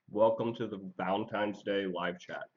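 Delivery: talking with a mouth full of steak; chewing steak. Real, not acted. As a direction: speak through a bite of chewing steak. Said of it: "I'm sorry I'm eating steak".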